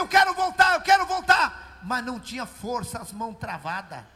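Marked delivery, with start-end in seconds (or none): 0.0-1.8 loud, pleading, high cry to go back; desperate shout. Retold or imitated. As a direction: cry out loud like a man stuck in the mud. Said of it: "E ele dizia".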